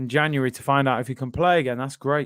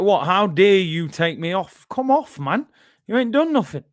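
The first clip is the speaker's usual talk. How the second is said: louder, pitched-up indignant protest, hammed up; outraged Neymar impression; 4 semitones higher, 4 dB louder than usual. Fan imitates subbed-off Neymar protesting to his manager, hammed-up indignant squawk. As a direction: act out a furious star subbed off, rising to a high squawk. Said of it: "he's like".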